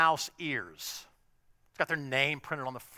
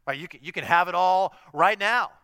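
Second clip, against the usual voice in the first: a lightly hammed-up TV preacher, a bit louder; mock TV preacher; 4 dB louder than usual. Mocking a TV preacher selling the easy life, hammed-up. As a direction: parody the slick prosperity pitch. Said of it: "you'll hear T V preachers talk like this".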